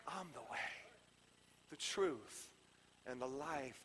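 low, very soft, spaced-out phrases; hushed, reverent restatement. Acted. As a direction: say it quietly, pausing between each phrase. Same words repeated softly.

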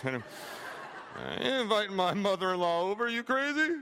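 laughing through a mock refusal. Preacher voicing a churchgoer, laughing it off. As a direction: scoff it out between laughs, as if the idea is absurd.

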